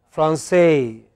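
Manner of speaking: "Francais" with the last syllable stressed and held; fran-SAY, weight on the end of "Francais"; French final stress. Shown as a demonstration. Teacher showing how French speakers pronounce it, final stress on "Francais". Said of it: "they pronounce it as".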